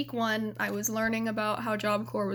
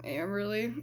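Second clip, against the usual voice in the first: softer, barely said; quiet, bashful name; shy mumble; 2 semitones lower, 6 dB quieter than usual. Retold or imitated. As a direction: say your name too shy to be heard. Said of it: "Sweetie, I can't hear you".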